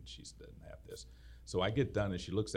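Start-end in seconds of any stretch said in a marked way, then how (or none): 0.0-1.1 whispered private thought. Retold or imitated. To himself while the lady watches, whispered. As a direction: whisper it to yourself, smug.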